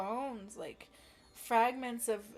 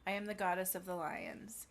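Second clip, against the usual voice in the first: low soft whisper; 5 semitones lower, 3 dB quieter than usual. Real, not acted. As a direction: whisper it reverently. Whispered proclamation.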